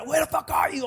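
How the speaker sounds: high, loud angry shout; mom yelling. Retold or imitated. Angry mom on the phone to her son, shouting. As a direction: scream at your kid who's out late. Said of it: "like, screaming".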